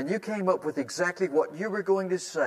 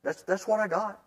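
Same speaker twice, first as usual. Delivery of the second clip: kind and gentle; 4 semitones higher than usual. Shown as a demonstration. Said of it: "very kindly and gently say".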